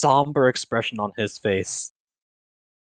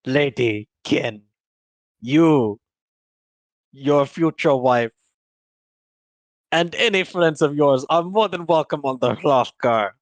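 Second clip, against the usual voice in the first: dead serious captain. Acted. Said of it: "dead serious".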